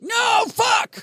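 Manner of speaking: very high, loud squawk of dismay; mock outraged shout. Podcaster reacting to co-host's film answer, mock outraged yell. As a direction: explode in exaggerated horror.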